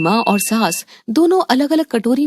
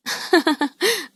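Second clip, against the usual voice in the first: light laugh; 6 semitones higher, 5 dB quieter than usual. Acted. Mothers enjoy teasing daughter.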